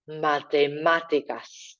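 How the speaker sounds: matemáticas slow with the á hit hard, mate-MA-ticas; big stressed a. Shown as a demonstration. Teacher modelling matemáticas, big stressed á. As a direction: punch the á in matemáticas. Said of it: "Another angry A happening here too".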